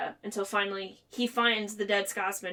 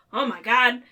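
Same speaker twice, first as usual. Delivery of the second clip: mock alarm; 3 semitones higher, 7 dB louder than usual. The speaker seeing her catch fire.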